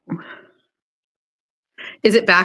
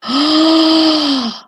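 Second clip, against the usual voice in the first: long, high, drawn-out gasp; excited gasp; 5 semitones higher than usual. Real, not acted. Streamer reacting to a new logo, excited gasp. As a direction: gasp with delighted disbelief.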